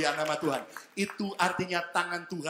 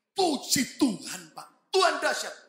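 joyful caller; 8 semitones higher, 6 dB louder, much slower than usual. Retold or imitated. Caller rejoices on phone.

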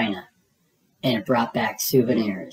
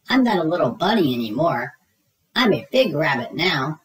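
proud insistence; 4 semitones higher than usual. Acted. Child insists he's grown.

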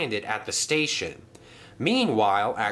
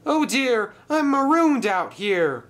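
high, loud distressed call; 13 semitones higher, 5 dB louder than usual. A narrator's reading. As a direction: call for help from far down the track. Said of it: "called Paxton".

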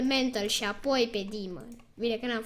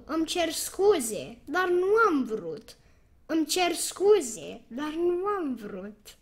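mock apology; 3 semitones higher than usual. Taunting the opponent with a fake sorry, mock-innocent. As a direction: pretend to be sorry while gloating.

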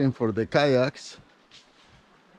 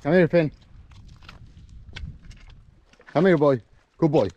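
calling a dog; 3 semitones higher than usual. Real, not acted.

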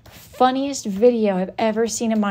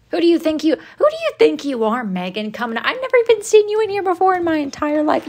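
indignant rant. Acted. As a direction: tell Megan off, fed up. Angry rant at Megan.

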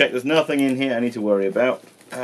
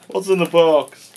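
raised, drawn-out desperate cry; dramatic film quote; 7 semitones higher, slower than usual. Retold or imitated. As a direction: yell it like the famous movie scene. Quoting film line, intense.

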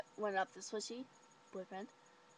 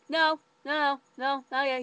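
louder, higher rushed no's; frantic denial; 4 semitones higher, 8 dB louder than usual. Retold or imitated. Rachel stopping the boy from telling, loud flustered denial. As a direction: cut him off before he spills it.

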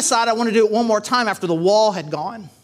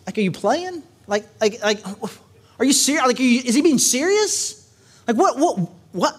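incredulous; 4 semitones higher than usual. Real, not acted. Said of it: "preacher's incredulous reaction".

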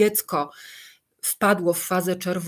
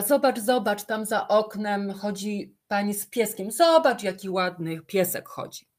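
put-on mother pointing out a dog to her crying toddler, eager; excited distraction; 2 semitones higher than usual. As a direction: perk up to pull the child's attention.

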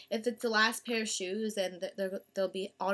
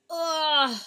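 imitated impact grunt; 5 semitones higher, 7 dB louder than usual. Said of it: "it was kinda like".

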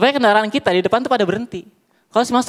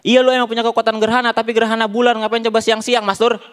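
angrier father; 2 semitones higher than usual. Acted. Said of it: "bapaknya malah makin marah".

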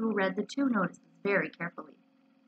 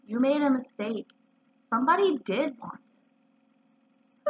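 measured, serious correction, slowing down; earnest, drawn out at the end; solemn; 2 semitones higher, slower than usual. Acted. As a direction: break it to them gravely. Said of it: "said Pooh solemnly".

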